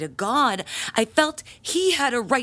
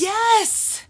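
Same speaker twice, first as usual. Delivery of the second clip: higher and louder outburst; sharp indignant cry; indignant yes; 10 semitones higher, 4 dB louder than usual. Acted. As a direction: blurt it out, affronted. She bursts out in outrage.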